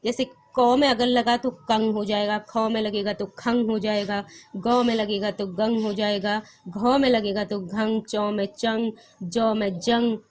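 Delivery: कंग, खंग, गंग said with a nasal ng ending; nasal anusvara demo. Shown as a demonstration. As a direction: sound each anusvara through the nose as कंग, गंग, घंग. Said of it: "इसको नाक से बोला जाता है".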